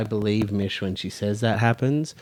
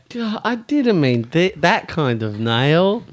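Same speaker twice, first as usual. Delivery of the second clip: mock dumb voice; 7 semitones higher, slower than usual. Friend mocks Mish's tire call.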